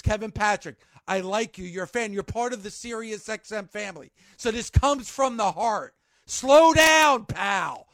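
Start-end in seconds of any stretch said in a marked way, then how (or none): 6.3-7.9 loud, high shout of slow down; a real exasperated shout; shouted plea. Real, not acted. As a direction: yell it at him to ease off. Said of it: "pleading with announcer".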